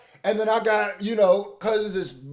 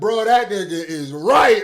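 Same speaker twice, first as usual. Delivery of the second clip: loud, slow emphatic agreement; reactor shouts his own agreement; 7 dB louder, slower than usual. Retold or imitated. Reactor yells his own reaction at the comedy clip. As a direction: shout it like he's convinced.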